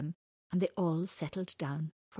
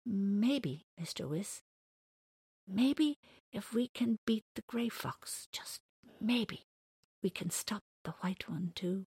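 hesitant hope; 2 semitones higher than usual. Acted. J C hesitantly hopes.

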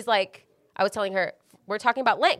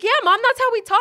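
mock sassy reply; 12 semitones higher, 6 dB louder than usual. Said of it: "I was like".

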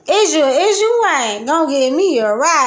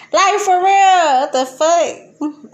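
slow disbelief; 3 semitones higher, slower than usual. Real, not acted.

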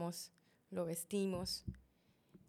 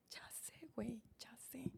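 very soft, whispery reply; retold hushed consoling; 3 semitones higher, 9 dB quieter, slower than usual. Brother answers his grieving sister, hushed and whispery. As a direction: murmur it under the breath.

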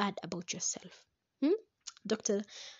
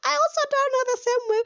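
laughing aside; 10 dB louder than usual. Real, not acted. Laughing self-mocking aside.

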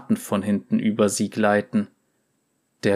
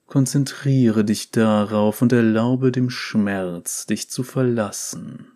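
slow hypnotist voice. Acted. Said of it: "mit hypnotischer Stimme".

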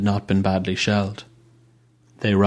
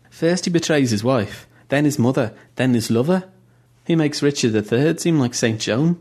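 higher, outraged list of betrayals; indignant; 5 semitones higher than usual. Acted. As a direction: build the charge line by line. Mo lists the king's betrayals.

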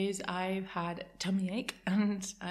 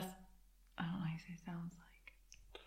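asked in a whisper; 14 dB quieter than usual. Real, not acted. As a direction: whisper it to yourself. Whispering the question to herself. (whispered question)

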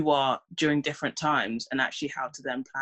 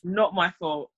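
higher and louder, triumphant relief; vindicated; 4 semitones higher, 4 dB louder than usual. Retold or imitated. Period starts, speaker triumphantly vindicated, higher and louder. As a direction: gloat that it was the hormones. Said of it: "and I'll be like".

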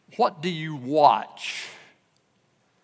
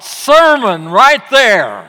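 amused thought; 6 semitones higher, 12 dB louder, slower than usual. Retold or imitated. Preacher's own thought, laughing.

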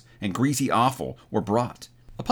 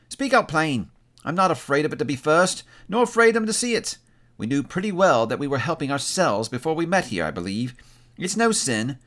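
higher-pitched woman's voice, unashamed; bold, defiant woman; 5 semitones higher than usual. Acted. Woman tells old Joe to open her bundle, defiant. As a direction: urge him on in a raised pitch.

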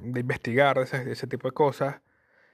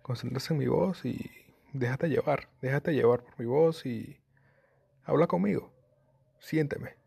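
soft, sleepy just-woke-up voice; just woken up; 3 dB quieter than usual. Shown as a demonstration. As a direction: talk like you just rolled out of bed. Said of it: "así como recién despertado".

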